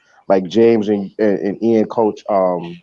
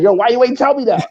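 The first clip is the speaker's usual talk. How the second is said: mock indignant; 10 semitones higher than usual. Ian retold complaining to speaker.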